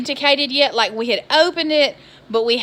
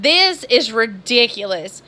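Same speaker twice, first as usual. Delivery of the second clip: retold livid rant; 3 dB louder than usual. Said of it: "I was livid".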